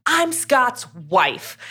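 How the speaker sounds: drawn-out indignant declaration; amped. Retold or imitated. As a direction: slowly stake your claim, mock outrage. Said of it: "'cause she's amped".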